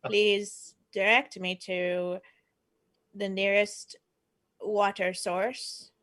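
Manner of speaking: slow robotic alien voice; stiff, deliberate alien speech; old speech synthesizer. Acted.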